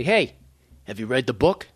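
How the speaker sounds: put-on a light Merrimack Valley accent, asking casually; townie Merrimack accent. Hometown locals ask about the book, lightly mocked Merrimack accent. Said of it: "in my town, they say".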